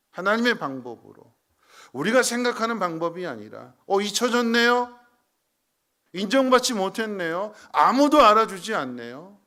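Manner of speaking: loud, high-pitched impassioned cry; preaching at full force. Acted. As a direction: plead it out to the congregation. Preacher voices forgotten feelings.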